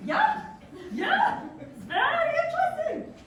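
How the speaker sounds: giddy high-pitched laughing yeah; excited squeal. Real, not acted. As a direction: squeal with delight at the idea. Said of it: "excited squeal".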